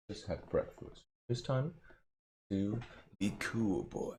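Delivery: very soft murmur to the dog; quietly settling the dog after breakfast. Real, not acted.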